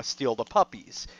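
hushed, conspiratorial whisper. Real, not acted. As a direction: drop to a secretive whisper. Sneaky puppy theft described.

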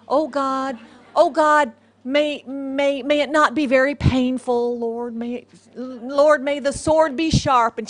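loud, hammed-up pleading; mock fervent prayer. Preacher parodies Christians praying for a brave death, mock-fervent. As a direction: plead to heaven in exaggerated earnest.

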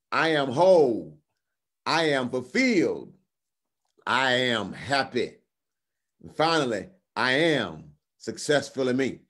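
slow, spaced affirmations; confession recitation. Real, not acted. Preacher asking listeners to say it along, deliberate declaration. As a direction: declare each short phrase deliberately, then pause.

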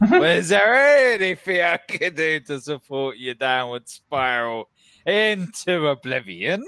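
sarcastic. Acted. Player offering to help a drunk fisherman, sarcastic. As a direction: offer help with exaggerated politeness. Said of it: "it would be so fucking sarcastic".

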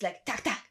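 short clicking "tack, tack"; imitated cut sound. Shown as a demonstration. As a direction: tap out "tack, tack" like quick film cuts. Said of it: "Very short".

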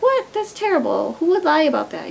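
a high, loud "what?" that settles into outrage; shocked disbelief. Retold or imitated. To her dad about her friend's claim, shocked and indignant.

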